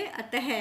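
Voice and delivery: अतः said as "a-ta-he", ending in a breath of H; sounded visarga. Shown as a demonstration. Teacher answering what we will say, अतः with sounded H. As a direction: end अतः on an audible H syllable. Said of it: "तो क्या बोलेंगे?".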